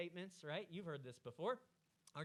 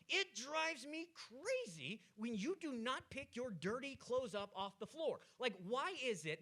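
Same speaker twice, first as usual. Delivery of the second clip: exasperated wife; 4 semitones higher, 4 dB louder, slower than usual. Acted. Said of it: "the wife comes in and she says".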